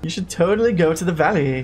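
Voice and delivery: lightly voiced valley girl; a hint of valley girl, stress on totally. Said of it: "Are you trying to sound like a valley girl".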